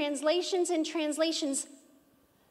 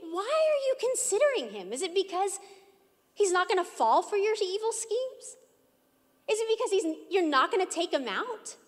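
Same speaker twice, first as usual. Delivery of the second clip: lightly voiced Lord confronting; 2 semitones higher than usual. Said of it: "He's saying".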